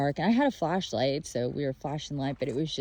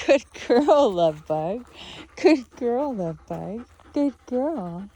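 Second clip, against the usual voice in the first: much higher, cooing praise for a pet; high dog praise; 8 semitones higher, 7 dB louder, slower than usual. Real, not acted. Owner praising Cora after a run, cooing high. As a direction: coo at her like a puppy.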